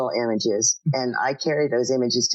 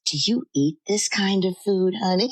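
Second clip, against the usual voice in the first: mother; 6 semitones higher than usual. Retold or imitated. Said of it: "she says".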